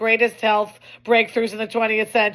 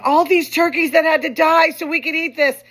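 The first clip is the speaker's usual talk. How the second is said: imitating niece; 7 semitones higher, 5 dB louder than usual. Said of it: "she starts saying".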